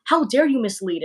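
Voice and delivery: mildly indignant commenter impression; mock upset. Streamer mimics commenters who missed the sarcasm, mock upset. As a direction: imitate an offended commenter, lightly. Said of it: "they get really upset".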